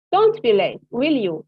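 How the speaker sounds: "will you?" dropping down; falling tag. Shown as a demonstration. Teacher reminding a student, voice falling. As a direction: let "will you?" fall as a firm reminder. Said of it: "the voice goes down here".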